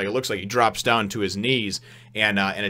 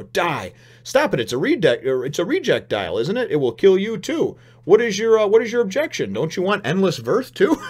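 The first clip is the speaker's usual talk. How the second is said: much higher, frantic pleading; panicked villain; 9 semitones higher, 5 dB louder than usual. Retold or imitated. Villain Enel panicking and begging Wiper to stop. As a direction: beg him to stop, rising panic. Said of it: "best exchange over here".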